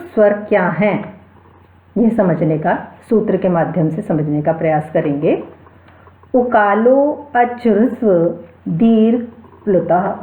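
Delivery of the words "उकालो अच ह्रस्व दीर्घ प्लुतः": sutra recitation. Shown as a demonstration. Teacher recites the grammar rule for students in a measured chant. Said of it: "सूत्र कह रहा है".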